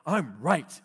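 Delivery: a harsh self-righteous claim; not gentle. Retold or imitated. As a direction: assert I'm right bluntly. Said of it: "and we're not gentle".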